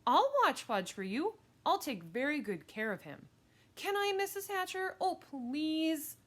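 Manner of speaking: put-on high, loud pleading girl; over-eager kid pleading, pitched high; eager begging. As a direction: beg to be given the job. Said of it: "begged some more".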